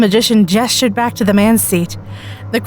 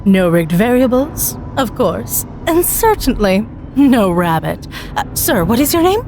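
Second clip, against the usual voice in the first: lightly voiced magician, savouring each word; showman magician. Magician teasing the volunteer, slow showman patter.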